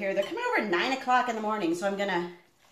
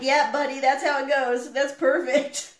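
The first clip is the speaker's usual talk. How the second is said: imitating dad; 4 semitones higher, 5 dB louder than usual. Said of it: "He's like".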